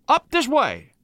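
high-pitched frantic cry; acted panicky call; senseless cry. A narrator's reading. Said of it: "she cried, senselessly".

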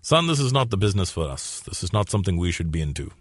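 lightly voiced father counseling his son; a hint of a stern but measured dad; dad's real voice. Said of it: "The real version of how my dad talked".

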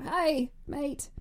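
attempted Irish accent that comes out Australian; mock accent, Irish by way of Australia; botched Irish accent. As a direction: have a bad go at Irish, landing in Australia.

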